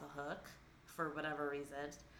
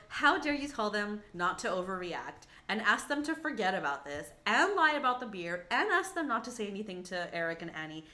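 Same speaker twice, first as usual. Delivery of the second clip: louder, different voice, scolding rant; 5 dB louder than usual. Retold or imitated. Viewer scolds Mary from notes, loud scolding rant. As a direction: read her the riot act. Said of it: "I go".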